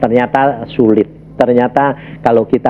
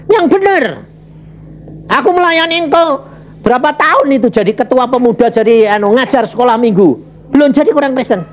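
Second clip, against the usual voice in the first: indignant protest; 9 semitones higher than usual. Retold or imitated. Preacher arguing with God, high indignant protest. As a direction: protest like you've been insulted. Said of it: "Aku bilang".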